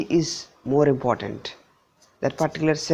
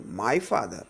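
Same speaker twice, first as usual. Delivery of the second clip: "my" emphasized over "father"; single out "my"; stress on MY; 5 semitones lower than usual. Shown as a demonstration. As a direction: lean on "my", falling on "father". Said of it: "If I stress this word".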